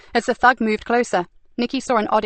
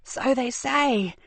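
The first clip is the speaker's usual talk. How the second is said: higher, slow, silky mockery; sneering villainess; 4 semitones higher, 3 dB quieter, much slower than usual. Frankie taunts Stevie over the captive, slow sneering. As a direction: savour the cruelty like a treat.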